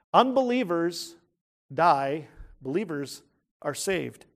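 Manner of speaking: each word set apart with pauses; slow contrast. Real, not acted. Preacher drives home the contrast, word by word. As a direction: unbelievers die, believers are saved, spaced out. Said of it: "slow stressed contrast".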